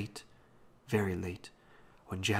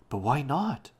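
higher, louder challenge; demanding; 6 semitones higher, 6 dB louder than usual. A narrator's reading. Robbie challenging old Da's warning, demanding. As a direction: demand an answer, pitch swooping up. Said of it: "Robbie demanded".

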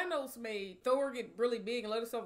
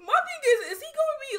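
laughing; 12 semitones higher, 8 dB louder, faster than usual. Real, not acted. Still laughing after the joke.

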